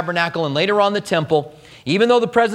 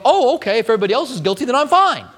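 high, sarcastic mock-cheerful voice; mock relief; 6 semitones higher, much faster than usual. Preacher mocks a guilty person's easy relief, high and sarcastic. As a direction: play the fool who is suddenly fine. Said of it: "As if you're gonna go".

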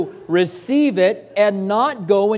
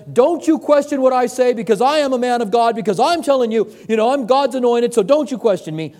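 a hint of a puffed-up TV preacher, louder; mock arrogant preacher; 4 semitones higher, 3 dB louder than usual. Pastor mocking TV preachers, mild pompous scolding. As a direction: lightly ham up a proud preacher. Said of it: "As soon as somebody says".

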